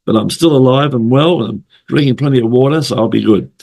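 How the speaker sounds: croaky voice from the flu. Real, not acted. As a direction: talk through a croaky flu throat. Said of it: "croaky voice, I've got a bad flu".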